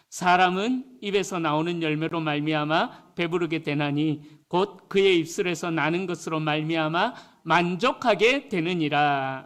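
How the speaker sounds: measured, formal Bible reading; scripture reading. Acted. Preacher reading the verse to the congregation, solemn.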